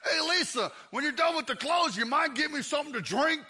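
high, wheedling call to the wife; put-on oblivious husband request. Husband lazily calling to busy wife.

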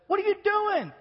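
high, loud startled shout up the rows; calling up to a son who ran off. Retold or imitated. Dad calling up the stands, high and startled.

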